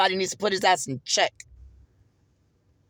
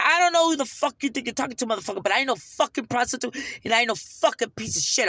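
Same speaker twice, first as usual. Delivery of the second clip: retold angry comeback; 2 semitones higher, faster than usual. Acts out her angry comeback.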